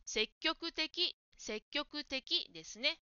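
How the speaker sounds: 積極的 stretched very slowly, syllable by syllable; deliberate slow 積極的; slow model word. Shown as a demonstration. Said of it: "積極的に聞こえました".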